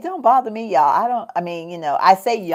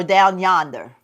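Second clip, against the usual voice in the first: whispered; 5 dB louder, slower than usual. Pretend. Playful example of Southern phrase.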